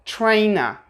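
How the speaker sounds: "trainer" ending in "uh", no R; British non-rhotic "trainer"; schwa ending. Shown as a demonstration. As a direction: say "trainer" as "tray-nuh". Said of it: "we have this schwa sound".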